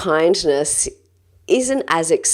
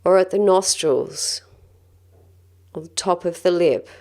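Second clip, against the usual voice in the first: calm, gentle guided-breathing voice; measured meditation guide, leaving space between phrases. Acted. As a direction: lead them through breathing with long, unhurried pauses.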